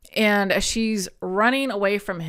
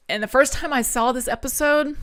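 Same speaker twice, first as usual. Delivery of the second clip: tearing up; 5 semitones higher than usual. Real, not acted. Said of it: "the tears just come on instantly".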